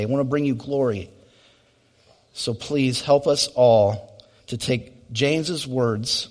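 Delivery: earnest pastor's prayer, swelling in the middle then fading. Acted. Closing prayer after sermon.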